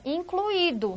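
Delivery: incluído with u and i apart, in-clu-Í-do; pronunciation demo. Shown as a demonstration. Teacher points out how incluído sounds, careful hiatus. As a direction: stress the separate i in incluído. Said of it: "olha a pronúncia".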